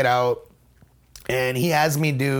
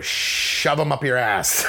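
slow deadpan; slower than usual. Retold or imitated. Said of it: "I go".

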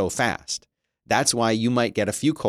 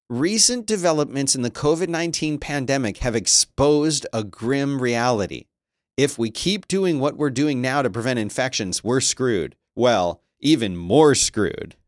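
mild monster truck ad voice; 2 semitones higher than usual. Shown as a demonstration. Reading the headline to chat in a light monster truck ad voice. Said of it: "Monster Truck, uh, ad voice".

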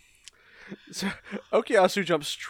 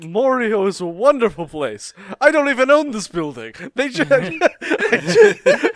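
mock restaurateur confession; 5 semitones higher, 7 dB louder than usual. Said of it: "He says".

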